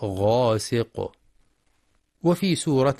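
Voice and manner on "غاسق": غاسق slow with a thick, heavy غ; heavy ghain. Shown as a demonstration. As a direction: give the غ of "غاسق" full heaviness. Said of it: "فلا يقرأ غاسق بالترقيق". (تفخيم الغين في غاسق)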